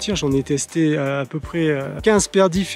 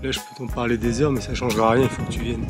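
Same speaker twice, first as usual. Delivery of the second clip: hushed awe; 4 semitones lower, 7 dB quieter than usual. Real, not acted. Awed at sunrise over clouds.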